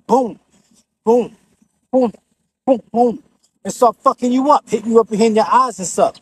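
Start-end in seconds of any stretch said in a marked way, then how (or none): 0.0-3.2 headbutt sound effects. Shown as a demonstration. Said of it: "headbutting you like this".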